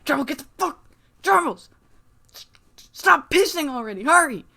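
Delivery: high, stammering panic calling for help; panicked old man. Retold or imitated. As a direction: squeal for Tribal like he's scared stiff. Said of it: "He's like".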